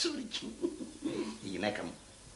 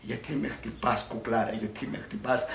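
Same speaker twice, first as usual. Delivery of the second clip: lightly voiced puzzled man; understated male lover; film lover; 4 dB quieter than usual. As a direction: play the man asking, in nearly your own pitch. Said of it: "Ναι, αυτός".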